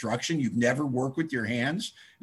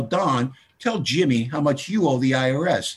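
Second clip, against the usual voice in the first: loud setup; 4 dB louder than usual. Retold or imitated. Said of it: "he'd go".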